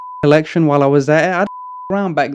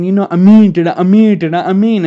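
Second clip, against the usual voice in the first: imitating the dealer; 5 semitones higher, 8 dB louder, faster than usual.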